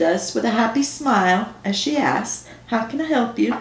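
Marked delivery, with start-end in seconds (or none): 2.7-3.5 drawn-out Southern drawl, lightly voiced; a friendly Southern counter girl, drawn out; thick southern accent. Rental girl greeting customers in thick Southern accent. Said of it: "Her southern accent was thick and drawn out".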